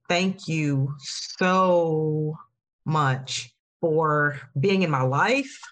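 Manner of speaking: slow, drawn-out thanks with feeling welling up; getting emotional. Real, not acted. Host thanking her podcast sisters, getting emotional. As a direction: let the emotion catch you as you thank them. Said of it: "I don't know why I'm getting emotional".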